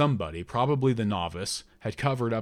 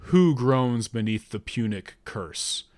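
slow, solemn oracle voice; voice of a god; 4 dB louder than usual. Acted. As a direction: intone it like a god speaking. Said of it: "in the voice of a god".

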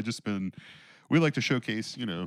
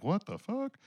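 retold shock; 10 semitones higher, 5 dB quieter, slower than usual. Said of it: "and I was like".

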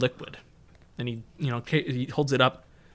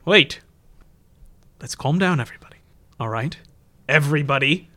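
urgent shout; 3 semitones higher, 4 dB louder than usual. Acted. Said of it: "Siegfried says".

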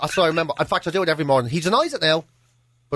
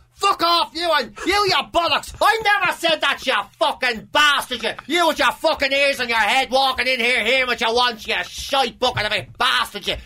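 blazing row; 2 semitones higher than usual. Retold or imitated. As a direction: play out a pub fight in full. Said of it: "Blazing row".

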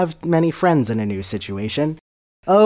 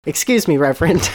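innocent call; 4 semitones higher, 3 dB louder than usual. Acted. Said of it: "cried innocently".

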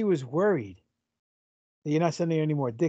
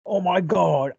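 put-on half British accent; slower than usual. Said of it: "It's getting worse".

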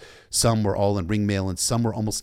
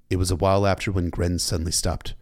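plain reading voice

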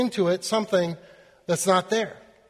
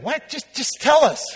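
higher-pitched, impatient retold plea; 5 semitones higher than usual. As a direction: act out an eager questioner pressing for it. Impatient representatives press the computer.

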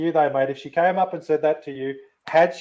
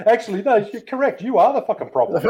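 laughing; 7 semitones higher than usual. Real, not acted. Laughing at Lee's comeback.

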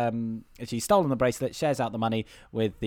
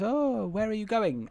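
high, soft, heightened posh British; posh British accent; 7 semitones higher, 4 dB quieter than usual. Retold or imitated. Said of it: "she's doing a different accent".

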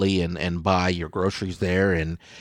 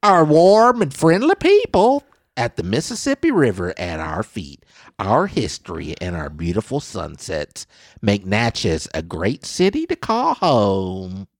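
put-on Southern accent. Host reads the mayor praising Natchez in a Southern accent. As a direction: lean into a Southern accent, easing off slow. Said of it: "I sound Southern".

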